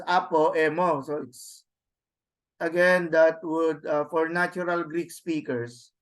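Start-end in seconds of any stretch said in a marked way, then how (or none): 0.0-1.0 apo and emo as separate words, vowel kept; wrong separated reading. Shown as a demonstration. Teacher showing students the wrong reading, apo and emo unelided. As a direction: say "apo, emo" without eliding the o. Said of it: "So you do not read it as".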